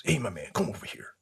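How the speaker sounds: fast hushed whisper. Retold or imitated. Retired soldier calling him over, fast whisper. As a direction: whisper it quickly like a secret.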